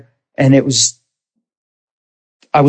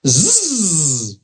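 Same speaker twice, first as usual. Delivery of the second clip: mock sleepy buzz; 3 semitones higher, 4 dB quieter than usual. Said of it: "It was like".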